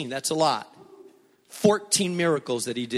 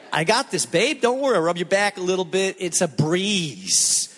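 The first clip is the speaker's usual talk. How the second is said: cocky calm; 2 semitones higher than usual. Retold or imitated.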